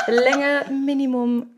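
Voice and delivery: reading while fighting laughter; barely holding back giggles; giggly reading. Real, not acted. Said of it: "Ihr wolltet es so".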